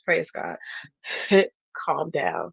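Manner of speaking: lightly voiced calm God; a hint of a soothing divine voice, talking her down. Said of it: "did I do a good God voice".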